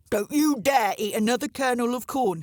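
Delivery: loud angry crow threat; thundering. A narrator's reading. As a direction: thunder the warning. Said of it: "he thundered".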